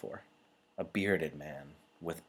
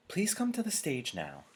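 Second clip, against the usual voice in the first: chief elder summoning; 10 semitones higher, 3 dB louder than usual. A narrator's reading. Elder calls Jonas up.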